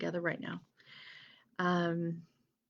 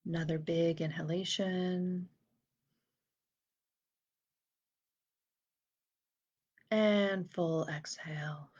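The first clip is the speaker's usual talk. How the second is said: unhurried breath cues, stretching key words and leaving space; guided meditation. Real, not acted. Inviting listeners to breathe fully in and out, guided meditation.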